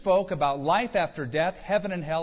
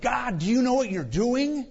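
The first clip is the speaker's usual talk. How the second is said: mock-anxious plea, pitched high; acting out a worried challenge to God; high-pitched, fretful questioning; troubled, worried; 8 semitones higher than usual. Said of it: "we get troubled and worried".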